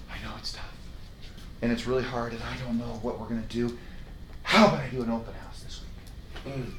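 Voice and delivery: soft, whispery, hesitant dodge; timid mumble. Retold or imitated. Agent dodging the price talk, soft and timid. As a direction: avoid the hard truth meekly. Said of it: "you say things like this".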